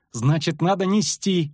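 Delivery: high, urgent insistence; tossed-out retort. A narrator's reading. Lyutik answers that she must be carried, urgently. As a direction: throw it back insistently. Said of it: "бросил он".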